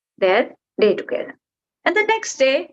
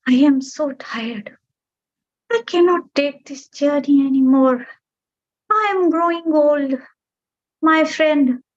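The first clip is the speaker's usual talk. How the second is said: put-on weary old bird; 4 semitones higher than usual. Aging bird bidding the mountain a final, weary farewell. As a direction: say goodbye knowing it's the last time.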